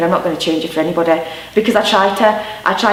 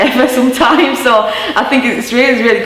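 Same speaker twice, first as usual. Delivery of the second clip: laughing through the words, higher pitched; amused, let the laugh lift your voice; 5 semitones higher, 3 dB louder than usual. Real, not acted. Amused at own thick accent.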